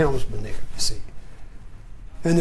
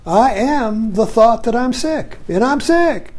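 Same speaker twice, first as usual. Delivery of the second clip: slower, higher, a touch of mock misery; mock self-pity; 4 semitones higher, slower than usual. Shown as a demonstration. Teacher voicing the identified self, mock self-pity. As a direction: play the sick self, half-hearted woe. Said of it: "But if I'm up here".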